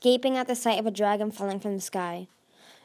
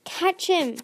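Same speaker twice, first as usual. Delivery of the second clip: urgent shout, much higher and louder; 8 semitones higher, 4 dB louder than usual. A narrator's reading. Tsunami orders Clay to catch Webs, loud. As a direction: yell the order as he falls. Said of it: "Tsunami shouted".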